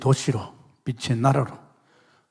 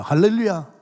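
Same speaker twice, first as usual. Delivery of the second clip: louder and higher, a burst of praise; ringing preacher's hallelujah; exultant hallelujah; 6 semitones higher, 7 dB louder than usual. Real, not acted. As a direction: shout it up to the congregation.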